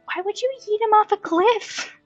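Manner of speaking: ordinary talk, nothing marked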